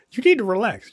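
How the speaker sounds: acted-out plea to relax; mock calming. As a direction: lift the pitch, as if talking someone down. Girlfriend calming him, acted out.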